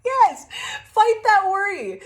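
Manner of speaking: loud, high, thrilled exclamation; excited cheer. Real, not acted. Speaker cheering on the viewer to fight worry, excited. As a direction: cheer it on, pitched right up. Thrilled by what was revealed.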